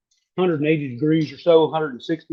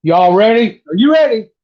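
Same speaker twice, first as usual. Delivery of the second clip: hyped, high and loud; excited; 5 semitones higher, 6 dB louder than usual. Real, not acted. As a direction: pump up the viewers before tasting. Hyping up the tasting.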